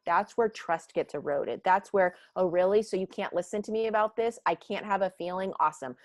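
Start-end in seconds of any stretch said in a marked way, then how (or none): 2.3-6.0 fast, sarcastic passive-aggressive jabs; a snide "oh really" with a sarcastic "awesome". Retold or imitated. A hurt employee sniping sarcastically, passive aggressive. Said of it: "passive aggressive".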